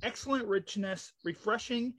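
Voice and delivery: slow, soft ad read; label read. Retold or imitated. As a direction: read the label like a beer ad, slowly. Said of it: "it says on the label".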